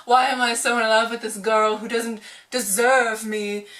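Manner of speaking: mock-anguished Darcy lamenting his lot; lovelorn Darcy. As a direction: moan it like a hammed-up romantic hero. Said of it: "he's just like".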